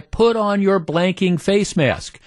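high, slow mock scream; retold scream. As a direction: imitate an angry yell without real volume. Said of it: "she's screaming at this guy".

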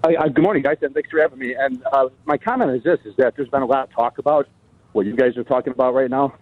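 out of breath. Real, not acted. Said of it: "if I sound like I'm on a breath, I am, 'cause I'm on a treadmill".

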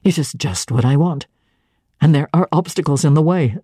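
lightly voiced, stern suitor; stern clergyman. St. John's voice lowered.

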